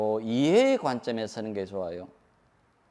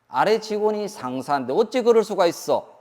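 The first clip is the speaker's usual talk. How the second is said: raised, louder indignant cry; how dare you, pitched up and loud; indignant outburst; 6 semitones higher, 4 dB louder than usual. Acted. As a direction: fling the outrage at the boss. Subordinate defying boss, acted indignation.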